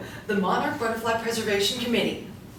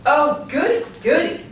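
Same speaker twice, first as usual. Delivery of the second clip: high squealing goody goody; giddy delight; 6 semitones higher, 6 dB louder than usual. Acted. Joan squeals with delight over the donation check. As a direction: squeal it like a kid with candy.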